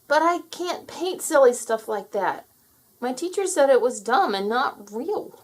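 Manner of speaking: put-on a high, loud child protesting; a boy hurt by what his teacher said; upset young boy. A narrator's reading. Terry refuses to paint for Puff, in a high upset boy voice.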